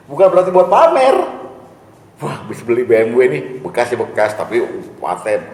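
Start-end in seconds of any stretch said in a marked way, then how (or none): 2.2-5.4 boastful bragging. Retold or imitated. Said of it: "ngomongnya begitu".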